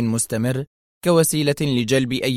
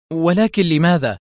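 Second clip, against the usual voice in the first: higher, stubborn challenge; sharp; 5 semitones higher, 4 dB louder than usual. A narrator's reading. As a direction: snap back into defiance. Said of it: "لتقول في حدة". (سؤال حاد معاند)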